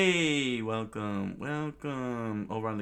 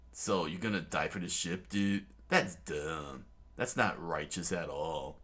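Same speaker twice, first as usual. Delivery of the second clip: lightly voiced Luffy. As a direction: lecture like a chill dude. Luffy voiced as laid-back dude.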